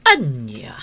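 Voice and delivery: shocked gasp. Acted. Wife shocked by husband's news.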